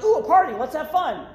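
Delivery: high-pitched mock excitement; imagined party-goer's delight. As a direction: pipe up like an eager guest. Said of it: "being like".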